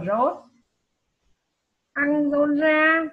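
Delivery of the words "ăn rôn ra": ăn rôn ra said slowly and loudly, each syllable spelled out; careful pronunciation. Shown as a demonstration. Teacher modelling a foreign name for pupils, slow and loud. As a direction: sound out ăn rôn ra slowly for the class. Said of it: "các em chú ý phát âm cho đúng".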